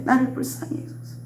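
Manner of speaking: unvoiced, humble whisper; whispered plea. Preacher whispering Peter's plea before Jesus. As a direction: breathe the plea.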